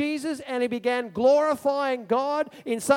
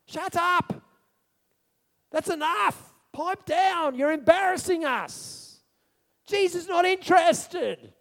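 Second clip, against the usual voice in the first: a touch of an impatient crowd, higher; mildly scolding shush; crowd hushing; 6 semitones higher, slower than usual. Acted. Crowd telling the blind beggar to be quiet, mildly scolding. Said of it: "Those in front of him told him to keep quiet".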